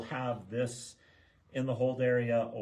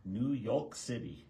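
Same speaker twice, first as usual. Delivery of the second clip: put-on New York accent; 2 semitones higher, 3 dB quieter, slower than usual. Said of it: "my New York accent there".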